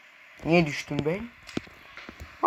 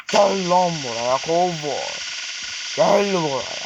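drawn-out taunting call; calling out a foe; slower than usual. Pretend. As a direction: summon your rival, stretching the words. Calling out the cowboy enemy.

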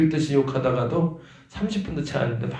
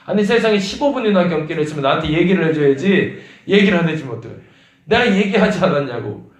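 louder, higher indignant scolding; angry retold complaint; 5 semitones higher, 9 dB louder than usual. Guardian blaming the director over the seizures, indignant. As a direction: confront him and demand why he said nothing.

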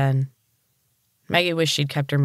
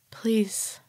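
a much higher, softer whispered please; high squeaky plea; 7 semitones higher, 5 dB quieter than usual. A narrator's reading. Maggie, terrified, begs Pratt in a high squeaky whisper. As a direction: beg in a tiny squeaking whisper. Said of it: "found the high, squeaky pitch of her voice".

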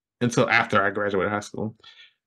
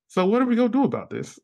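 mock panic; 11 semitones higher, faster than usual. Panicked self-question.

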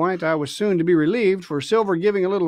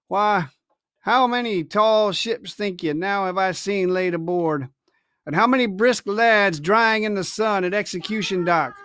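crying out; 3 semitones higher than usual. Acted. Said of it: "cried Silver".

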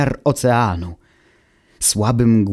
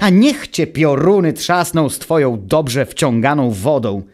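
higher, louder angry curse; furious shout; 4 semitones higher, 3 dB louder than usual. Acted. Automateusz curses Wuch, shaking with anger, higher and loud. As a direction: curse him, shaking with rage. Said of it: "zawrzasnął, trzęsąc się z gniewu".

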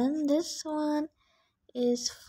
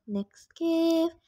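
higher, announcing again; perked-up higher announcement; brighter repeat; 6 semitones higher than usual. Real, not acted. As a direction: lift it up like presenting the gift.

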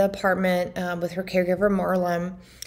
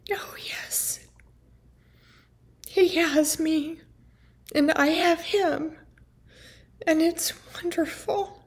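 lightly imitated mom, higher and soft, half-whispered; mom's sing-song voice; 6 semitones higher, 4 dB quieter than usual. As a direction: echo her airy sing-song, a bit higher. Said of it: "was like a singing song".

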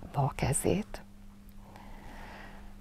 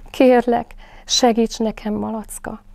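pleading little Roo; 6 semitones higher, 4 dB louder than usual. A narrator's reading. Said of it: "kérte Zsebi baba".

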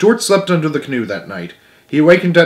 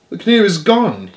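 higher-pitched, acted groan of dismay; 7 semitones higher than usual. A narrator's reading. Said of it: "he groaned".

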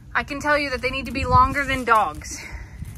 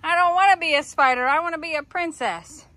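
lightly voiced pouty dog, a bit higher; dog's voice, reluctant; 4 semitones higher than usual. Owner voicing her dog who hates the spider costume, mock-sulky. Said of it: "Chia's like".

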